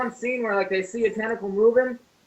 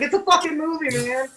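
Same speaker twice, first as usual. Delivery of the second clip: higher-pitched retold protest; exasperated insisting; 6 semitones higher than usual. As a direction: argue back at doubters, exasperated. Retold argument with disbelievers.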